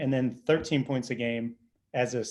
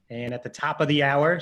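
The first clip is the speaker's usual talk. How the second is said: smooth rising host announcement; radio voice. Shown as a demonstration. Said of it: "see, I'm in my radio voice now".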